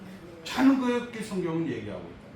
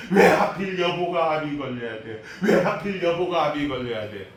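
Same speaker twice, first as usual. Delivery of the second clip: laughing mock protest; 3 semitones lower, 4 dB louder than usual. Husband's protest retold, laughing.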